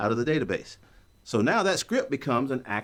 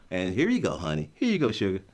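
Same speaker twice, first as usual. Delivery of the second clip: melted wife; 7 semitones lower than usual. Retold or imitated. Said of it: "She just melts".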